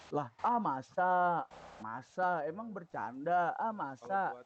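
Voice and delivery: slow, drawn-out doubtful masa; sarcastic disbelief. Retold or imitated. Storyteller doubting the thug, slow and sarcastic. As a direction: stretch the doubt out slowly. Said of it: "kata gua".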